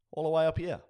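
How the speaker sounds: excited top. Shown as a demonstration. Showing top of emotion scale.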